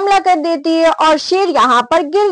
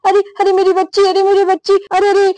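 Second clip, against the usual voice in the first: higher, hurried mock panic; panicked; 4 semitones higher, faster than usual. Mother fears for her child taken by lion, panicked. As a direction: voice a frantic mother, lightly acted. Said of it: "Sanjana बहुत ज्यादा घबरा जाती है".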